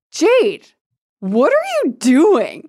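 high, drawn-out, baffled plea; a stunned boy calling her name; shocked Mark. Retold or imitated. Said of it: "Mark keeps going".

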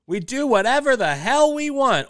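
high, loud, gleeful; excited. Real, not acted. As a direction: announce it with big glee. Gleeful question and answer.

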